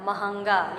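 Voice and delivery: महंगा slowly, nasalised on the h; correct pronunciation. Shown as a demonstration. Teacher showing the correct word, slow nasalised second syllable. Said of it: "लेकिन सही शब्द जो का उच्चारण होगा".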